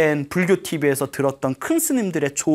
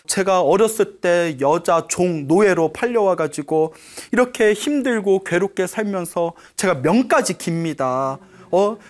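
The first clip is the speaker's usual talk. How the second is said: mild lament; 2 semitones higher than usual. Acted. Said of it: "하고 엉엉 울고 있으니까".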